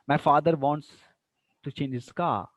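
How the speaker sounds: statement dropping on "car"; falling intonation. Shown as a demonstration. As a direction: let "car" fall to a close. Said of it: "falling intonation is there".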